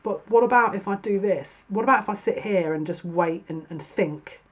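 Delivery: a stalling person begging not to go; whiny hesitant querent. Pretend. Querent stalling at the portal, whiny and hesitant. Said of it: "sat at the portal, going".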